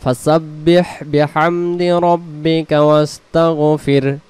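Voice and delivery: ফাসাব্বিহ with the হ swallowed; wrong reading. Shown as a demonstration. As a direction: run it together, dropping the হ. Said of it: "কেউ আবার বলে ফেলেই".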